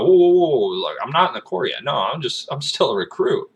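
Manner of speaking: rushing to set him straight; teen recruit correcting a veteran; flustered protest. Retold or imitated. Retold self correcting the Marine.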